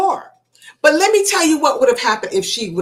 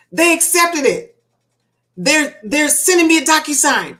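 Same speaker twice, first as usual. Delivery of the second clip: excited; 5 semitones higher than usual. Retold or imitated. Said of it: "she was so excited".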